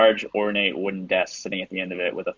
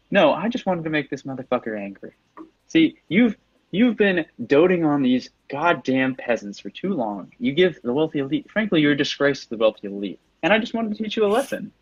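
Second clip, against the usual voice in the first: higher-pitched, haughty villain voice; sneering aristocrat villain, pitched up; scornful villain; 6 semitones higher than usual. Acted. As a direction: lecture your rival with lofty contempt. Game master voices the villain Miros.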